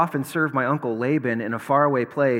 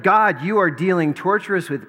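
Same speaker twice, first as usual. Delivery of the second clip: Jacob's complaint; 7 semitones higher, 6 dB louder than usual. Retold or imitated. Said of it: "But, but Jacob would say, like".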